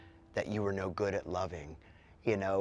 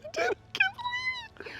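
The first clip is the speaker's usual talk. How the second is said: mock anguish; faster than usual. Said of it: "how shameful I feel".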